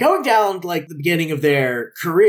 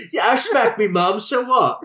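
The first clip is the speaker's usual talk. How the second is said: cheeky London chav voice; swaggering chav, laughing through it; rough london slang; 7 semitones higher than usual. Retold or imitated. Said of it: "Talk like a chav".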